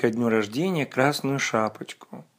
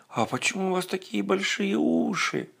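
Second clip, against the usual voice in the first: put-on much higher, wondering child; little girl voice; 7 semitones higher, 5 dB quieter than usual. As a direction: ask like a puzzled little girl. Girl questions the wolf.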